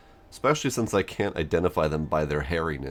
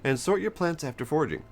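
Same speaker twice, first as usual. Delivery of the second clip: lightly voiced instructive game character, often higher; lilting, gently cautionary advice; knowing herbalist character; 4 semitones higher than usual. Herbalist character advises the player on foraging, lightly cautionary.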